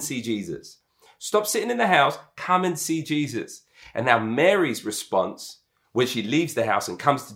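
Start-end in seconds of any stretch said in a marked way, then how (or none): 1.2-3.6 urging sister. Acted. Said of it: "tells her sister to stop sitting".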